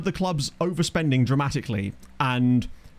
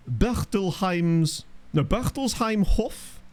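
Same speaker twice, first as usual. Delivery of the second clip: mock German accent; 3 semitones higher, much slower than usual. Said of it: "I'm butchering these".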